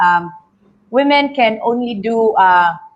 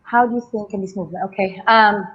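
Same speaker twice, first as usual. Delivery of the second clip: out of breath; faster than usual. Real, not acted. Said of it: "I'm catching my breath".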